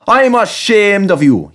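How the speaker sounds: scolding. A narrator's reading. Skarloey telling off the rude coaches, scolding. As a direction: scold them like naughty children. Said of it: "he scolded".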